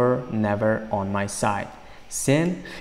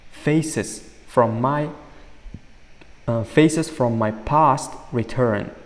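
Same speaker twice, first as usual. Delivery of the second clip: slow reading; 2 semitones higher, slower than usual. Shown as a demonstration. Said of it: "Aytyapti, faces".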